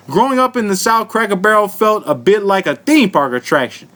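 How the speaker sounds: put-on lightly drawled Southern accent. Host reads a Cracker Barrel article, put-on Southern accent. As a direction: read it out with a touch of Southern twang. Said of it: "I'ma read in my real Southern accent".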